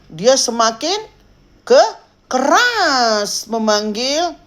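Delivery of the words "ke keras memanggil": drawn-out, emphatic "keras". Shown as a demonstration. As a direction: stretch KERAS out slowly and raised. Preacher acts out growing loudness. (keras, diulur panjang)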